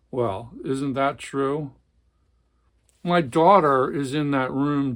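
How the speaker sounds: dramatic read-aloud of a tense family scene; novel reading. A narrator's reading. Book reviewer reading a novel passage, dramatic narration. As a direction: read it like a gripping literary passage.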